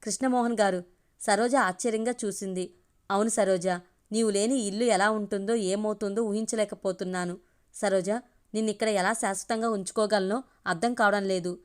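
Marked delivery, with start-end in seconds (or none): 3.1-11.6 understated sigh of sorrow; sighing sadly. Acted. Man tells Saroja he can't imagine home without her, mildly sad. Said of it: "నిట్టూచి అన్నాడు బాధగా".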